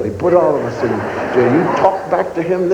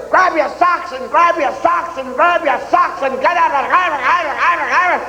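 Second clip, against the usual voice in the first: sergeant yelling; 8 semitones higher than usual. Retold or imitated. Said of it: "he stood there yelling".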